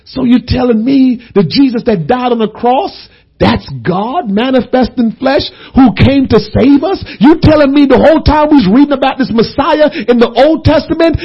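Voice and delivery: growing amazement. Retold or imitated. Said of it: "He's like".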